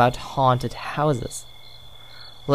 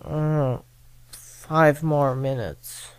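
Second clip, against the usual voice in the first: sleepy mumble; much slower than usual. Retold or imitated. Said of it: "and me saying".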